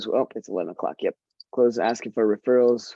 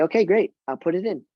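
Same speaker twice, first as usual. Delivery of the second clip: quick easy agreement; 3 semitones higher than usual. Shown as a demonstration. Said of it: "You just say".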